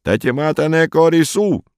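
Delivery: high-pitched, squealing plea; shrill, pitiful wail. A narrator's reading. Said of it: "и визгливо, жалостно завопит". (визгливый, жалостный вопль)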